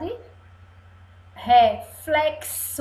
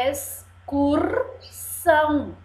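stretched-out, careful "Excursão"; slow reading aloud; 2 semitones higher, slower than usual. Shown as a demonstration. Teacher reads the word to children, slow model reading. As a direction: read it slowly for children. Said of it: "Vamos ler?".

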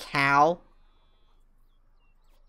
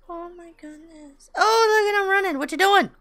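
much higher, louder cooing; squeaky pet voice; 8 dB louder than usual. Real, not acted. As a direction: gush at the running chicken. Cooing at running chicken.

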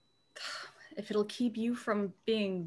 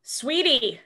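urgent call; 5 semitones higher, 7 dB louder than usual. Acted.

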